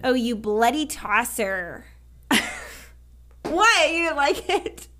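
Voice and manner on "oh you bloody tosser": slow, slightly louder attempt at a British accent; a light, hammed-up British accent, drawn out; mock British accent. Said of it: "Sounds weird in a, an American accent".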